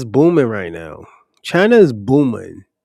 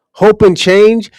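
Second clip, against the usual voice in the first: incredulous repeat; 6 semitones higher, 5 dB louder, slower than usual. Real, not acted.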